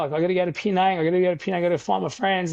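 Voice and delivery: panicked retelling of begging to leave; frantic urgency. Retold or imitated. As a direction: push hard, desperate to get going. Frantic retold plea to leave.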